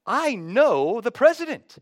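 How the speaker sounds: high, loud mock-giddy inner voice; hammed-up starstruck thrill; giddy excitement. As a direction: play up the starstruck cadet.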